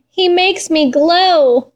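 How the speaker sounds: high, slow and lovestruck; longing cry. Acted. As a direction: let it float up, dreamy and slow. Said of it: "Moonshine cried".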